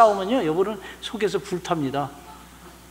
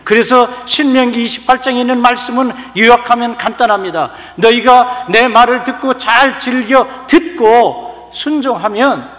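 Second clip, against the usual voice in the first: loud, high pulpit climax; fervent sermon peak, slowing on the scripture; preaching at full force; 6 semitones higher, 10 dB louder than usual. Acted. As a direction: build it up and drive it home.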